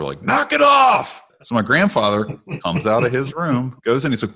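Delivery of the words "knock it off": high, sharp retold yell; yelling knock it off. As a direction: bark it out like an annoyed houseguest. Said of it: "the guy yells out at my grandfather".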